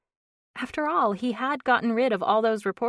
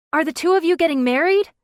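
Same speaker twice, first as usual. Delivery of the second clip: woman's voice; 11 semitones higher, 12 dB louder, faster than usual. Acted. Reporter shouts question from crowd.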